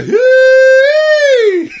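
put-on high, loud hillbilly whoop in a Deep South accent; mock Deep South accent. Brit mocking Americans with a Deep South accent. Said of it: "do a Deep South accent".

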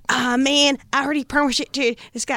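a playful attempt at Mahomes' voice, mid-laugh; laughing Mahomes impression. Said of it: "I don't know how to do my Mahomes".

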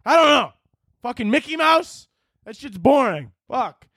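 high, frantic dad, fading at the end; out of ideas for the kid; helpless panic. Pretend. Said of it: "I'm gonna be like".

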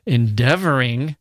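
fierce scornful cry. Acted. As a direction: spit the word back fiercely. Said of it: "cried the tyrant fiercely".

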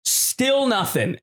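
mimicking the bar girl who still doesn't get it, high and drawn out; blank bartender. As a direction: stretch it out, utterly lost. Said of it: "And the girl's like".

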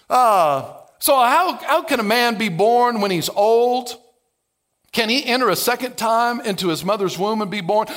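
lightly sarcastic Nicodemus asking Jesus; sarcastic question. Retold or imitated. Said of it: "Notice the layer of sarcasm".

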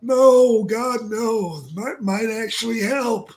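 high, mournful, creepy whine; Paul Bearer impression. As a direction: moan it like a gloomy undertaker. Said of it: "He's like".

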